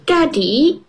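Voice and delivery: put-on high bright child voice; little girl voice. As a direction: speak up high like a small girl. Peppa voiced in story.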